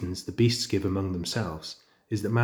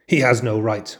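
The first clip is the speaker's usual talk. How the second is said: a touch of anger, louder; angry; 6 dB louder than usual. Acted. Father Wolf angered by the tiger's trespass, louder. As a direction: growl it with rising anger. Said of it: "Father Wolf began angrily".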